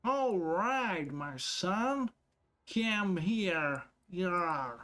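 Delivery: mocking a rough worker's English; a hint of a peasant talking. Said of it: "a field worker's English".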